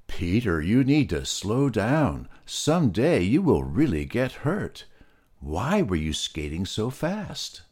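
lightly voiced pig, mildly concerned; Molasses the pig. Molasses scolds Peter.

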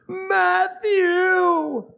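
high, carrying call up the stairs. Retold or imitated. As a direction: yell a name from another floor. Parent calling down from upstairs.

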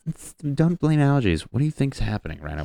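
mock retort. Mock retort about crying.

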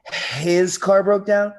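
loud, slow dawning realisation; taken aback, still eager. Acted. Ex learning it's her boyfriend's car, taken aback but obliging. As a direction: stall in disbelief, then give in and agree.

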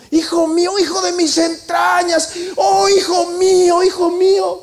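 high, loud wail with a cry breaking through; crying lament. Acted. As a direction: Saul weeps over David, hammed up as in a pulpit. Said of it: "hablando muy, muy bonito".

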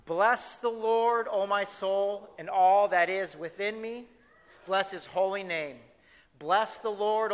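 slow, measured King James psalm reading; scripture reading. Acted. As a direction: read it aloud reverently, savoring each line. Reads NASB version together.

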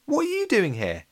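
high-pitched, incredulous question; astonished question. A narrator's reading. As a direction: ask it in startled surprise. Lola startled to find Jenny.

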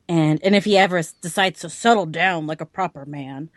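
lightly voiced old man; a hint of a gruff old man. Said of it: "That was my old man voice".

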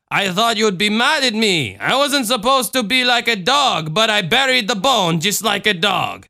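put-on small child blurting a confession; child confessing. Voices the child.

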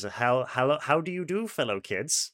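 lightly imitated awkward grown-up posing as a kid; Steve Buscemi. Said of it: "reminds me of Steve Buscemi's".

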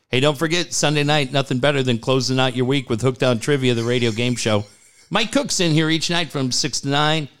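upbeat announcer plug; radio promo read. Shown as a demonstration. DJ plugging the trivia show, upbeat announcer read. Reads another liner.

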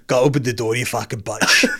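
badly done South African accent; mock South African drifting into Scottish; South African accent, sounding Scottish. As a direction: imitate a South African ordering someone about. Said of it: "why is he Scottish".

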